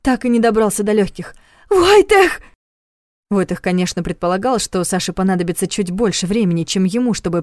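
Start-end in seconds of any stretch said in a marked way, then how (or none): 1.7-2.4 high, loud panicked scream. A narrator's reading. Trapped Sasha screams for Vojtech in terror. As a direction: scream his name in terror. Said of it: "её полный ужаса крик".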